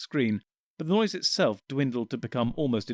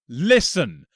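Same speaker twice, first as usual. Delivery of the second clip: calling out; 4 semitones higher, 8 dB louder than usual. Acted. Calming the crowd.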